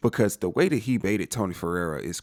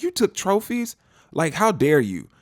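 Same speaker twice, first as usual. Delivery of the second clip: outraged Harry; 8 semitones higher, 4 dB louder, slower than usual. Retold or imitated. Harry losing it at Dexter.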